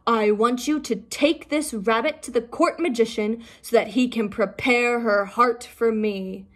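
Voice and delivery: a hint of a commanding king. King ordering his servants, lightly commanding. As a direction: give the order firmly. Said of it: "he commanded his servants".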